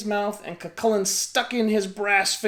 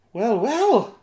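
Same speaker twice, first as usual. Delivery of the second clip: sweet smile; 5 semitones higher, 5 dB louder than usual. A narrator's reading. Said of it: "with her sweetest smile".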